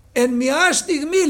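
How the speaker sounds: «στιγμή» stretched slow, rising at the end; slowed emphasis. Shown as a demonstration. Preacher to the brothers, slow stretched «στιγμή». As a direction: drag out «εν μια στιγμή» slowly.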